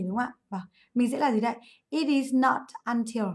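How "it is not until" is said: slow, measured phrase; slow modelling. Shown as a demonstration. Teacher gives class the grammar structure, slowly modelled. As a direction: spell out the structure slowly for students.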